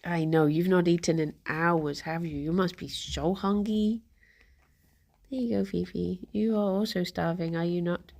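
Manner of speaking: soft pet talk. Real, not acted. Talking softly to her rabbits.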